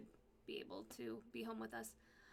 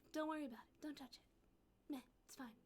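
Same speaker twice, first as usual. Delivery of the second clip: high, softer, careless mock brush-off; mocking doctor; 4 semitones higher, 5 dB quieter, faster than usual. Mocking the spine doctor, a careless dismissive voice. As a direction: lightly parody the doctor shrugging it off. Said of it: "Spine doctor says".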